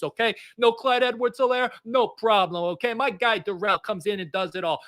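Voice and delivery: a lightly voiced Italian uncle; Italian accent. Welcoming a running back to the family, in a mild Italian accent. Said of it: "the Italian accent".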